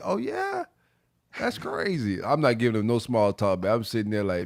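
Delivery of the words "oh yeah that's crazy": very high, swooping, friendly, polite chatty tone. Mocking how a friend entertained a stranger: imitating Trey's polite small talk. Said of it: "nice guy, small talk shit".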